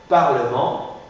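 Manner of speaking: parlement in three syllables, "par-le-ment"; mute E pronounced. Shown as a demonstration. Teacher models parlement for student to repeat, E clearly articulated. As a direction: sound the middle E of parlement. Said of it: "je suis obligé de prononcer".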